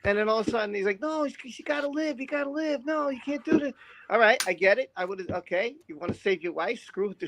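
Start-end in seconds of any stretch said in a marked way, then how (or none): 1.0-3.7 higher, softer mock plea; hammed-up desperate begging in a raised voice; imitating pleading Anakin.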